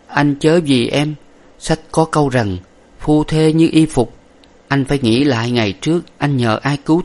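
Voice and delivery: high, faint farewell of a dying woman; fading breath, parting tenderly; dying wife. Acted. Dying wife counsels husband.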